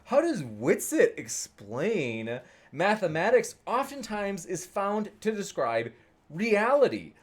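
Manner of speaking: slow, swooping sassy question; drawn-out words, sassy ups and downs. Retold or imitated. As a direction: read it out with exaggerated sass. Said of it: "I'm saying it the way she says it with her sass".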